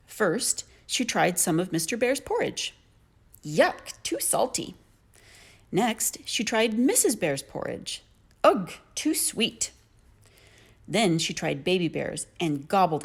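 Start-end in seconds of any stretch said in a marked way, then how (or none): 3.4-4.7 lightly voiced fussy girl. A narrator's reading. Goldilocks tastes porridge. 8.4-9.7 lightly voiced fussy girl. A narrator's reading. Goldilocks tastes porridge.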